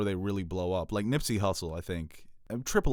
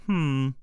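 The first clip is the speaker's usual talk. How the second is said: higher villager grumble hum; Minecraft villager hum; 7 semitones higher, 5 dB louder than usual. Acted. Host showing how villagers react to theft, humming. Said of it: "The villagers in Minecraft".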